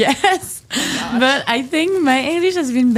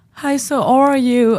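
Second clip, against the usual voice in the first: slow American accent, hard R's; drawn-out American greeting voice; mock American accent; 3 semitones higher than usual. Shown as a demonstration. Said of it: "if you do an American accent".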